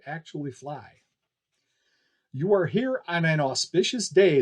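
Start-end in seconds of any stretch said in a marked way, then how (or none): 2.3-4.4 circus barker. Acted. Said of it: "the man with the megaphone continued".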